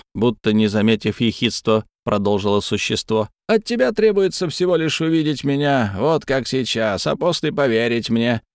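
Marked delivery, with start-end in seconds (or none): 3.5-8.4 high, otherworldly being; eerie creature voice. Acted. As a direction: speak as an uncanny spirit. Creature speaks, high far voice.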